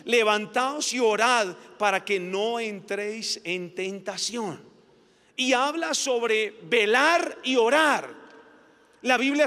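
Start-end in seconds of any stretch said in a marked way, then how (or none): 0.0-4.6 Jesus rebuking. Acted. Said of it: "y les dijo".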